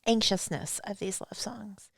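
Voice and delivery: soft unvoiced whisper. Real, not acted. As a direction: breathe it as a whisper. Whispered aside.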